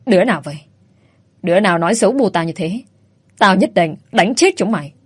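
understated threat, words forced through the teeth, fast; a touch of menace from an angry son; lightly voiced furious threat; mild gritted growl. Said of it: "gằn giọng".

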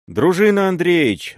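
high, loud call from below; shouted warning. A narrator's reading. Serebryany shouts up the stairs to warn the boyar, calling out loud. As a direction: yell his name to warn him.

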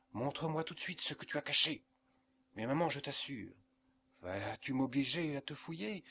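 mother demanding what her son hid, frightened. Acted. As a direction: rush the words, afraid of what she'll find. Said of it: "d'une voix effrayée".

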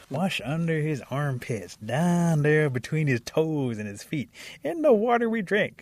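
slow outrage building high and loud; disgusted outrage. Acted. Raccoon telling animals about the bath, disgusted. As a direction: relish each gross detail, climbing to outrage.

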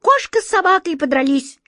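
loud, high, forced jester delivery; straining performer. A narrator's reading. Old actor straining to amuse the listener, loud and forced. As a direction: push the gag out loudly, straining for a laugh. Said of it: "надрывался старый актёр".

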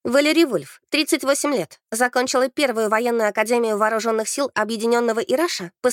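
crisp cadet reporting to a superior; formal report. A narrator's reading. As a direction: recite your record to the captain. Trainee reports record to captain.

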